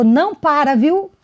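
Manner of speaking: put-on shout, high and light. Retelling how an airport inspector called from across the belt: imitating someone shouting. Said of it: "ela gritou".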